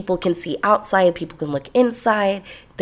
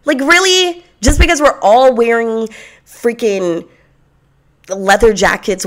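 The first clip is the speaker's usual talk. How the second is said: incredulous; 3 semitones higher, 5 dB louder than usual. Real, not acted. Mocking the lame pickup line.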